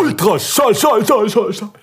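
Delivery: high, fading echo repeats; echo effect. Pretend. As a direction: make the word echo away. Joking echo of the word.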